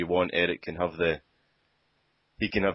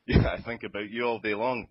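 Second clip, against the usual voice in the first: broad Glaswegian rap restart; Glaswegian accent; 2 semitones higher than usual. Acted. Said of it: "in a broad Glaswegian accent".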